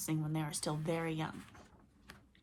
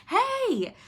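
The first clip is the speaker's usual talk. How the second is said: shout; 8 dB louder than usual. Acted. Chasing the sun.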